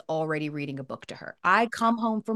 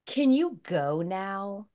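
put-on condescending toddler; much slower than usual. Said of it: "finally she goes".

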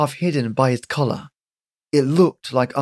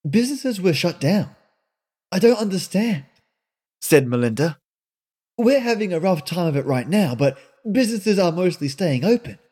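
put-on higher, pressing young woman's voice; indignant young woman; 5 semitones higher than usual. Melinda presses Granny about the roadhouse, indignant and higher. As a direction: demand answers, rattled and suspicious.

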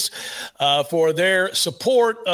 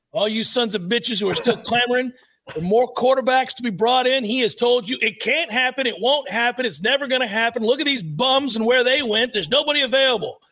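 higher-pitched, insistent scolding; mock exasperated rant; 6 semitones higher than usual. Host scolding fans clamoring for quarterbacks, mock exasperated. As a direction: lay down the law, pitched up and emphatic.

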